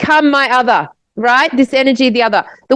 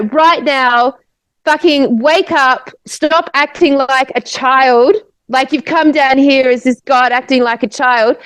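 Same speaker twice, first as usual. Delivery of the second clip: retold angry warning; 2 semitones higher than usual. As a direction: imitate her angry warning, stretching the words. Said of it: "in this heavy accent".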